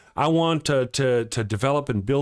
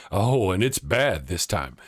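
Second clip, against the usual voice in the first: slow, lower, lightly acted voice; commercial voiceover, imitated; 5 semitones lower, slower than usual. Host quoting his own commercial's voice, slow low imitation. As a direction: draw it out slowly like the quoted commercial. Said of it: "you'll hear a voice that says".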